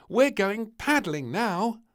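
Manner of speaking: put-on high, bossy child voice; eager little princess. A narrator's reading. Princess urging the tired family on, high and bossy. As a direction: insist cheerfully.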